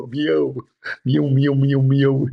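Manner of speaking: playful imitation cat meows; cat meowing. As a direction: meow like an eager cat. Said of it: "effort it take me to make a meow".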